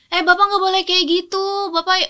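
re-enacted firm but controlled reprimand. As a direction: calmly set limits with an upset patient. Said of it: "Gue tuh tegas". (menegur pasien dengan tegas tanpa marah)

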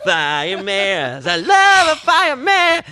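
put-on high, loud begging child voice; excited child. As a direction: squeal like a kid wanting a toy. Kid begging for toy in ad.

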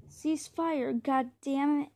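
yelled order over gunfire; loud shout. Acted. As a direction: bark the order loudly. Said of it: "The lieutenant's loud voice sang".

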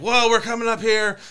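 hyping the crowd like a TV wrestling host; Mean Gene. Retold or imitated. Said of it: "Mean Gene was like".

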